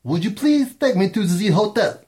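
high put-on tourist asking for a hotel; mock tourist voice. Joking at listeners in France, a high mock tourist. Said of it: "said nobody in France ever".

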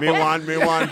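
jokey imitation of a Jamaican accent. Ribbing the son who objects, mock Jamaican accent. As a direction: mimic a Jamaican mom's accent for a laugh. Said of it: "Jamaican accent? Come on, you gotta go".

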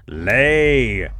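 booming giant order, loud; loud command. Acted. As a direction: bark the order at the hen.

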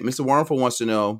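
quick, hurried delivery; rattled off quickly; talking fast. Real, not acted. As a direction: rush through it under time pressure. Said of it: "I'm talking fast".

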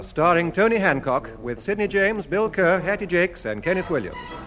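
ordinary talk, nothing marked

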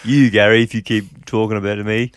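gruff loud crook voice; criminal voice. Pretend. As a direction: menace him like a gangster. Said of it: "why am I doing his voice?".

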